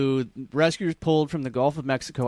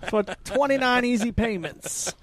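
infomercial pitch; 8 semitones higher than usual. Acted. Continues infomercial preacher bit.

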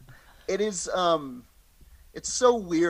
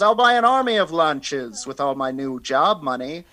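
cocky glee; 5 dB louder than usual. Pretend. Imagined boast after the job offer.

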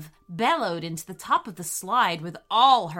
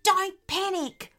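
high, slow reassurance; reassuring echidna; 9 semitones higher than usual. A narrator's reading. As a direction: reassure them in a high, unhurried voice. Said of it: "reassured the echidna".

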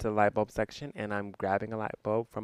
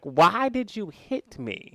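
put-on little boy; 9 semitones higher, 3 dB louder, slower than usual. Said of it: "he really was asking her, like".

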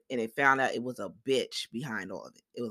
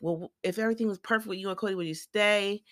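Robin; 5 semitones higher, faster than usual. Retold or imitated. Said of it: "then she's like".

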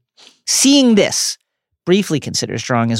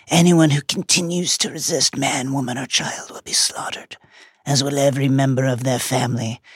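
cold rasping evil emperor. Acted. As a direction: threaten them in a hushed, cold hiss. Voldemort threat with whispers.

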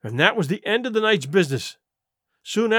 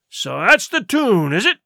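slow, louder sly remark; slow mock surprise; 2 semitones higher, 4 dB louder than usual. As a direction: savor the win. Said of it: "cried the cook".

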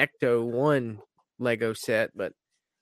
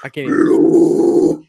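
laughing; 6 dB louder, much slower than usual. Real, not acted. Both laughing.

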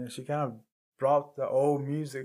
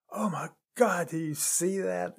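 imitating awestruck fan; 5 semitones higher than usual. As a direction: gush in awe, stretching the words. Acting out a singer watching another singer.

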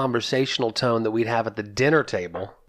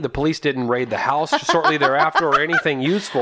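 laughing; 3 semitones higher, 3 dB louder than usual. Real, not acted. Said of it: "laughing after the clip".

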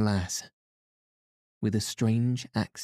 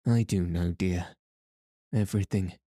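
infinite gentleness. A narrator's reading. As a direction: hold her gently with the words. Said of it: "with infinite gentleness".

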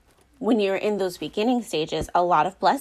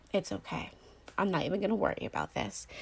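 calm unbothered; 9 dB quieter, faster than usual. Retold or imitated. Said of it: "where it's like".

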